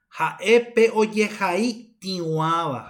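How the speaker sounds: slow dictation; slow model phrase. Shown as a demonstration. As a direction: dictate Jaepe oye jai tiwaba slowly to the class.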